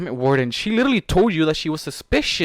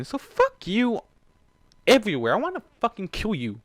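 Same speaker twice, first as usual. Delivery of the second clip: furious outburst; 8 semitones higher than usual. Real, not acted. Reader raging at Storm, higher and furious. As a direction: rage at her.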